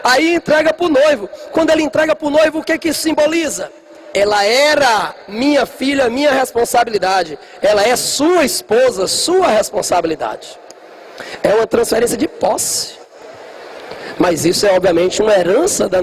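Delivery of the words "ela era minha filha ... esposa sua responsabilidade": slow, solemn handover; solemn father. Retold or imitated. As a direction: say it slowly like a ceremonial vow. Father handing bride to groom. (pai entregando a filha ao noivo, devagar e solene)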